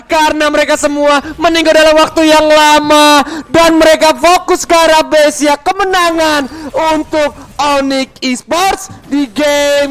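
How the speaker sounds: excited announcer. Real, not acted. Caster calls the victory.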